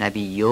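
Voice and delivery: نبی with a needlessly stretched vowel; wrong stretch. Shown as a demonstration. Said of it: "درست نیست".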